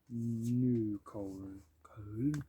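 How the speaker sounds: New Colne, Colne said in a plain English accent. Shown as a demonstration. Reviewing a singer's albums, redoing the title in English accent. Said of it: "I'll just say it in an English accent".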